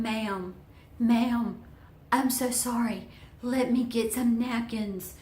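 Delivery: a hint of a flustered young server; apologetic girl. Acts the mortified girl apologizing.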